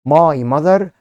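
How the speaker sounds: slow, loud, word by word; slow dictation. Shown as a demonstration. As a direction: dictate each word slowly. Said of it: "وفوق أنا قلت إيه؟".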